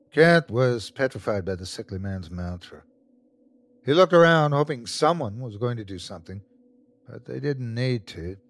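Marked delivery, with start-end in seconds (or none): none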